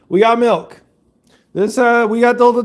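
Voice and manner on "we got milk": excited announcement. Real, not acted. Hyped milk announcement.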